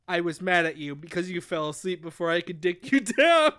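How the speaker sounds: low mock-sulky male complaint; hurt pride. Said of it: "he's really hurt".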